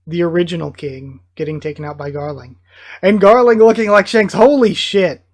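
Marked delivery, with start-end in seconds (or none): 3.0-5.2 loud, higher-pitched amazement; astonished outburst. Real, not acted. Reader spotting that Garling looks like Shanks, astonished. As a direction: blurt it out, stunned and loud. Amazed reaction to manga reveal.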